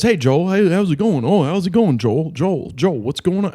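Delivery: a breezy hey-buddy hello; mild mock cheerful colleague; friendly greeting. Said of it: "and he goes".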